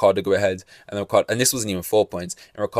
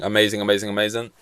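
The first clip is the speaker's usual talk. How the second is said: lightly mocking, barely voiced; understated sarcastic praise; faster than usual. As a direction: repeat it with a dry sneer. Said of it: "that's sarcasm".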